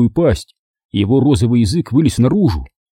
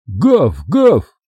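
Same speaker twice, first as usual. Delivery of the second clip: dog bark. A narrator's reading. Narrator voices the dog barking.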